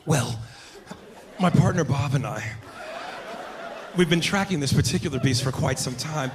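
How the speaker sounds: hushed earnest wildlife presenter, then mauled; mock-awed safari host narrating; nature documentary host parody. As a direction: nature show host, excitement building to a yelp. Parodies white nature show host.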